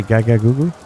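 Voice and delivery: mocking impression of a babbling infant; teasing baby voice; mock baby talk. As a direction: babble like a baby to belittle him. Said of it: "What's he gonna say".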